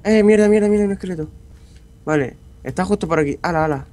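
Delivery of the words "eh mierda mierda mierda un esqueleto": startled cursing. Real, not acted. Skeleton attack.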